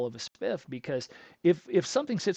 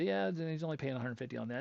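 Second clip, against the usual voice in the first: retold offhand, softer remark; matter-of-fact; 5 dB quieter, faster than usual. Salesman mentioning his small pay to customer, matter-of-fact. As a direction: toss it off without dwelling on it. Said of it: "it was just some matter of fact".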